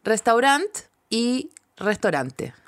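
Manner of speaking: slowly, restaurant with AU, then restaurante as "restorante"; listing pronunciations. Shown as a demonstration. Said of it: "las tres formas de decirlo".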